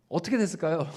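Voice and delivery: 어떻게 said softly, almost to himself. Shown as a demonstration.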